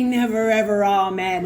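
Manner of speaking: laughing, firm "never ever, amen"; amused firm reply. Retold or imitated. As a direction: close the door with a chuckle. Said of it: "this bitch laughed as she said to me".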